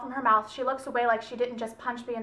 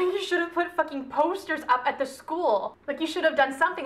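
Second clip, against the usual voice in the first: higher, mildly indignant reproach; retold anger; 4 semitones higher than usual. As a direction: throw a mock-angry accusation at her. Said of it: "he's just so mad at her".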